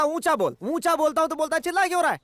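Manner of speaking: indignant protest; exasperated. Acted. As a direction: throw the contradiction back at him. Exasperated quarrel over speaking volume.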